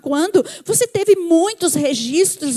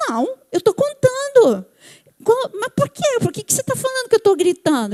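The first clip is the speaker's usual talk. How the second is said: imitating an excited husband, high-pitched protest; mock indignant husband, voice pitched up; marido falando alto; 7 semitones higher than usual. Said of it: "ele tem o tom de voz assim". (marido se defendendo, tom agudo e exaltado)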